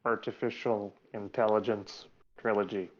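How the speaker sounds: stiff, even robot monotone. Pretend. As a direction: say it like a bad robot. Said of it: "that is a terrible robot voice".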